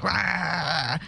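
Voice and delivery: mock ghostly roar, drawn out without real volume; imitated disembodied scream. Witness imitating what the thing yelled, mock scream. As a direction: imitate the thing's wordless yell. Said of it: "full out disembodied scream".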